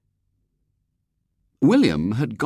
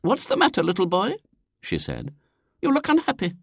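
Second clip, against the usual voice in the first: put-on much higher, sugary elderly lady; pitying old lady; 12 semitones higher than usual. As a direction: coo down at a sad little boy. Elderly lady pities William.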